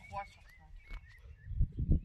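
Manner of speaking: very slow whisper of the score; whispered echo. Real, not acted. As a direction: breathe the score back, drawn out. Echoing the announced score.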